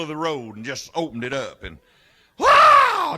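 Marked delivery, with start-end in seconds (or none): 2.4-3.2 high, loud wow; elated whoop. Acted. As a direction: whoop it out with delight. Elated boy tearing open his package.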